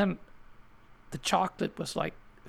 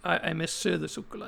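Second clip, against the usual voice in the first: Swedish accent; faster than usual. Real, not acted. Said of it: "You say it with a Swedish accent".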